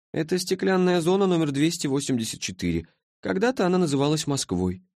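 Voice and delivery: sleepy being from the future, puzzled; languid creature. A narrator's reading. Creature's voice in story.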